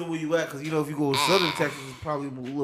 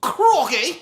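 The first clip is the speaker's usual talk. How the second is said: put-on Australian accent; 9 semitones higher, 8 dB louder than usual.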